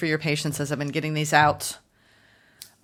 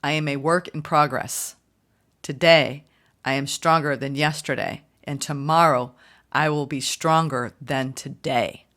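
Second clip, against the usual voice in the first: slow affirmation read; 3 semitones lower than usual. Shown as a demonstration. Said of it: "I'll repeat this again".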